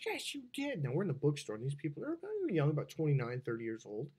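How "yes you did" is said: high-pitched, softer imitation of him insisting; squabbling boyfriend's comeback; mock bickering. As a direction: throw back a high mock contradiction. Couple quarrelling, man insists.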